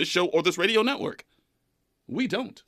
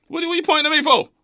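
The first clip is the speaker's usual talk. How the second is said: high, loud, rattled denial; defensive; 13 semitones higher, 4 dB louder, much faster than usual. Real, not acted. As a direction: protest too much, caught out. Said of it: "why do I sound so defensive".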